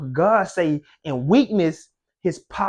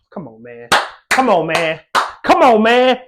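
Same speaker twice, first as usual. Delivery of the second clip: building excitement; 5 dB louder than usual. Real, not acted. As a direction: build it up each time until you're shouting. Preacher working up the crowd.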